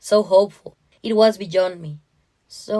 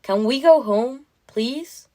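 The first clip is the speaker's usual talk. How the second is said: higher-pitched plea, rising at the end; pleading daughter; 5 semitones higher, 4 dB louder, slower than usual. Acted. Anna asking her mom to go home, pleading.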